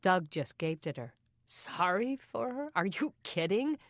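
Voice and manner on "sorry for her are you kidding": indignant. Acted. Doug outraged at Kay.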